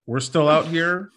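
mock ad read. Host parodying a podcast sponsor message, mock ad read. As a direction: pretend to sell it like a sponsor read. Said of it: "This podcast is brought to you by".

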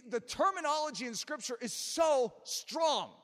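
weighty, punched sermon delivery; emphatic preaching. Real, not acted. Preacher warns congregation that doubt is no small matter, emphatic preaching. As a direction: drive the warning home.

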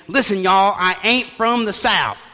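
loud New Yorker faking Southern talk; New York accent. Acted. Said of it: "like somebody from New York saying".

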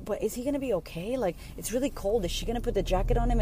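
lightly acted motherly worry; worried. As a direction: retell anxious second thoughts, quietly. Retells her worried thoughts about baby.

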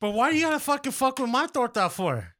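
high-pitched, indignant question; worked-up food grievance; exasperated protest. Acted. Acting out his food grievance.

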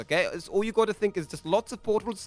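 high, loud impatient little creature; pushy goblin host hurrying them in; Grinch-like figure. Acted.

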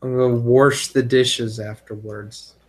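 wash said as warsh, with an r before the sh; warsh pronunciation. Real, not acted. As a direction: say wash as warsh, rural style. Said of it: "I never heard that one".

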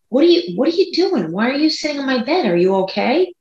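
high, quick alarmed questions; startled roommate. Retold or imitated. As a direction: sound woken and spooked. Roommate woken at night.

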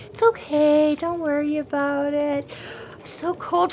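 Harry hamming up his own death to Murphy; mock dying hero. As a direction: play the tragic hero fading out with a mock tremble. Retold tragic hero's dying words.

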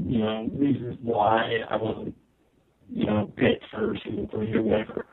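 choppy robotic internet-call audio; glitchy robot voice over Skype. Real, not acted. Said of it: "the Skype robot voice".

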